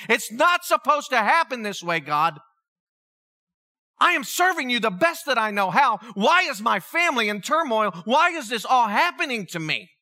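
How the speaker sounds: mild mock yell of complaint at God; retold scream. Retelling his protest to God in turmoil, half-shouted indignation. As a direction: plead your grievance with God, heated but held back. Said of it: "I'm screaming out the very same thing".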